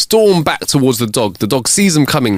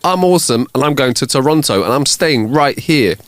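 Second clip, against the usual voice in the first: higher, self-assured passenger voice; Silly Sal; 5 semitones higher than usual. Acted. Silly Sal repeating it to the co-pilot, higher and stubborn. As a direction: repeat it like a stubborn refrain, pitched up. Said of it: "but Silly Sal repeats".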